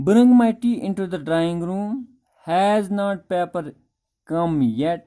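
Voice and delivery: slow, deliberate reading of the text; reading the story line by line; slow reading aloud. Shown as a demonstration. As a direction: read each word out slowly for the class. Reads father's line from the text.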